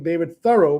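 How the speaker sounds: THOREAU as THUR-oh, front stressed; corrected pronunciation. Shown as a demonstration. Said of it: "people will not believe you".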